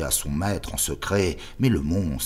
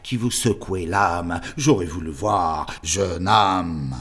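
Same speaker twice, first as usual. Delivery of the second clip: louder, pleading exclamation; crying out; 3 semitones higher, 6 dB louder, slower than usual. Acted. The confrontation in the superior's room, loud and agitated. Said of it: "et je m'écriai".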